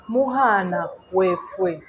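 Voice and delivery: drawn-out recap of the phrase; unhurried, stretched-out teaching demo; slow model pronunciation. Shown as a demonstration. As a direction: say each word slowly to be copied.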